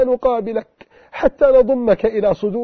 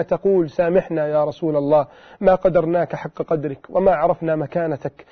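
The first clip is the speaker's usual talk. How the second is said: breaking, tearful plea; 6 semitones lower than usual. Real, not acted. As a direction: voice sinks much lower, close to tears. Closing tearful plea for forgiveness. (رجاء خافت منكسر يكاد يبكي)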